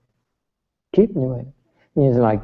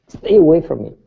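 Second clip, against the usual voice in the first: mock angry shout; 6 semitones higher, 5 dB louder than usual. Student snapping back at master.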